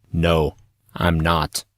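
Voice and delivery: slow, grave denial; flat serious no, taking time. Acted. Artorias corrects Monson about Kylie, slow and serious. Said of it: "expression turning very serious".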